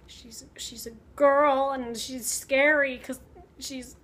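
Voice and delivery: hesitant, slow shy stammer; a timid young man flustered by a girl; bashful stammer with a whispered aside; nervous Polidori. Retold or imitated. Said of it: "Byron and Polidori are hanging out".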